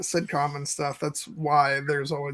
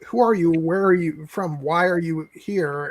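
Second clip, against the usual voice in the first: desperate pleading. Retold or imitated. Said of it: "desperately asking".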